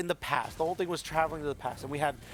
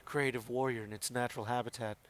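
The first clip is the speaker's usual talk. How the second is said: hushed wildlife narrator voice; nature documentary; 2 semitones lower than usual. Acted. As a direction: narrate like a nature show host. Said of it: "narrate in that voice".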